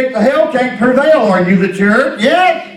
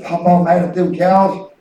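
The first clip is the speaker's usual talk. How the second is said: put-on laughing child's question; 7 semitones lower than usual. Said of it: "And he says".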